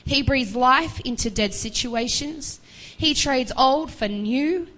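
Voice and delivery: slow, ringing preacher cadence; preaching at full force. Acted. Preacher proclaiming hope to the congregation, slow and ringing. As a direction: build the promise word by word.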